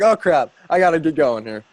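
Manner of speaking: mock panic. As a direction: play the teammate caught off guard. Imitating team members feeling fomo.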